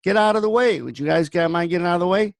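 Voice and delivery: mild mock yell, polite, from the truck window; kindly yelling. Calling out to parents behind the truck, mild polite yell. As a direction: call out nicely to get them to move. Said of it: "I yell out my window kindly".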